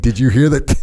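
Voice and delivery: laughing while asking. Retold or imitated. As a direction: ask it through a laugh. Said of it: "Jocko said while laughing".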